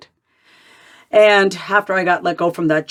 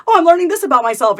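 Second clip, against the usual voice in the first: higher-pitched mock amazement; mock discovery; 9 semitones higher, 4 dB louder, faster than usual. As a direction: act out a pretend revelation. Mimics a naive self-discovery reaction.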